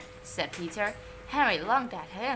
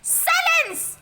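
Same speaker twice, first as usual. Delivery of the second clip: much higher, loud stern bark; order; 7 dB louder than usual. A narrator's reading. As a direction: command the room to silence. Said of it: "ordered Miss Battle Axe".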